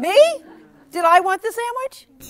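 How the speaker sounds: high, loud playful disbelief; mock surprise. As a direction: act amazed for the kids. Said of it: "teacher plays surprised".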